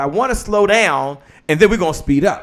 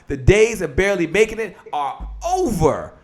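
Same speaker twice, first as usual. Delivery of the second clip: declaration; 2 semitones higher than usual. Real, not acted. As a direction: build to a long-held "over". Closing line of the declaration.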